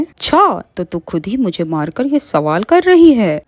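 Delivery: mocking witch. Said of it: "Mona चुड़ैल कहती है".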